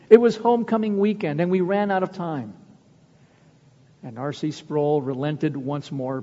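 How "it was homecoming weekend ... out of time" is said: mock begging excuse. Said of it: "they begged".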